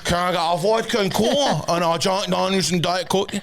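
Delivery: lilting order, breaking into a laugh; laughing show-off drinks order; laughing repeat. Retold or imitated. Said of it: "Excuse me".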